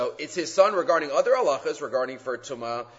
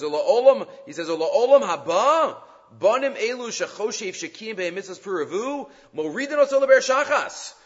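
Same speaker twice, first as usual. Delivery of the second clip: quoting the sharp rebuke, loud and forceful; sharp words; 5 semitones higher, 4 dB louder than usual. Retold or imitated. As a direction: read the harsh verdict with bite. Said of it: "he has very sharp words".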